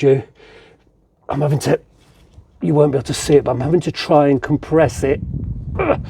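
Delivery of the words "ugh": effort grunt. Real, not acted. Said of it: "excuse me, grunting".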